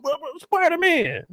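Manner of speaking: high, drawn-out excited call. Retold or imitated. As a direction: call out like a starstruck fan. Excited bystander calling out.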